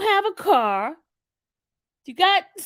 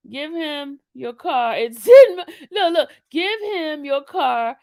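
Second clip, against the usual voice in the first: laughing disbelief; 6 dB louder than usual. Real, not acted. Laughing at the victim's foolishness.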